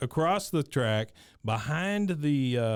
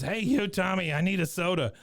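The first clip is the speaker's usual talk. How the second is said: put-on drunk hillbilly yell; 6 semitones higher than usual. Wichert yelling again.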